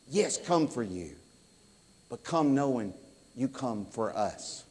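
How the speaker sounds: hushed closing exhortation; soft earnest preaching. Acted. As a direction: draw them in quietly. Quiet earnest sermon close.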